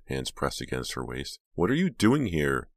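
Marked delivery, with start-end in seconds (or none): 1.5-2.7 high, loud, amazed question; incredulous exclamation. A narrator's reading. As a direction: ask in loud amazement, pitched up. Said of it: "Jade exclaimed".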